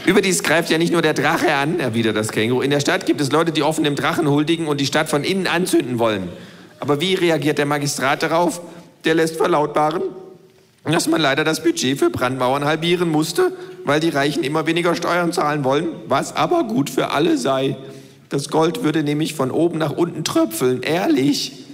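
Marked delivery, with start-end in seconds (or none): 0.1-1.8 lightly voiced cheeky kangaroo, a touch higher; the know-it-all kangaroo lecturing. Kangaroo speaks, laughing. 2.6-21.6 lightly voiced cheeky kangaroo, a touch higher; the know-it-all kangaroo lecturing. Kangaroo tells the parable.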